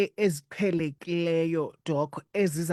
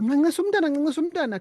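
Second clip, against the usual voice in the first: high, loud insistent order; bossy high call; 12 semitones higher, 5 dB louder, much faster than usual. Retold or imitated. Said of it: "kufike kuthiwa".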